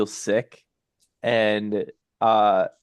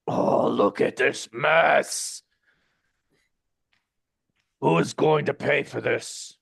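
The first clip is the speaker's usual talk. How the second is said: gargoyle; 2 semitones higher than usual. Acted. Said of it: "and the gargoyles, uh, they, they say".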